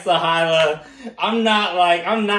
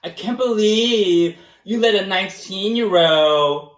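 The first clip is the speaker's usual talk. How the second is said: imitating Allison; 4 dB louder than usual. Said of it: "That's how I imitate Allison".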